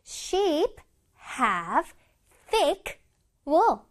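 one word at a time with pauses; slow model reading. Shown as a demonstration. Teacher reading an example for children, word by word. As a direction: space out every word clearly. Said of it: "문장 다시 읽어보자".

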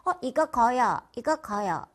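"거요" with ㄱ in place of ㅈ; backed ㅈ. Shown as a demonstration. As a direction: say "거요" for 줘요, tongue too far back. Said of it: "이런 식으로 발음이 돼요".

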